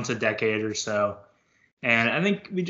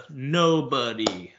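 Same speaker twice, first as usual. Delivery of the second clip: Flight Reacts impression; much slower than usual. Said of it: "As Flight Reacts would say".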